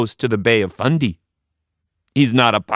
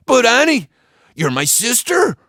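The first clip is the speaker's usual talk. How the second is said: blubbering whine; 13 semitones higher, 4 dB louder than usual. A narrator's reading. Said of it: "Joe blubbered and he whined".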